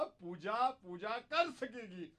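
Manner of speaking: put-on high voice. Prank caller mimicking in story.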